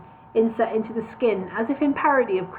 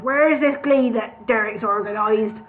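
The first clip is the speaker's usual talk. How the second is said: gravelly boss voice. Shown as a demonstration. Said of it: "I can do that voice better".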